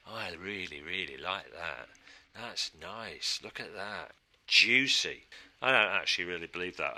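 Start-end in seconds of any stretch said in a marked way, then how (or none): 4.5-5.2 "Juicy" savoured with relish, a bit louder. Pretend. Designer admiring chocolate packaging, saying "Juicy" with relish. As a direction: roll "Juicy" round the mouth like a treat. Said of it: "I just felt like saying it like that".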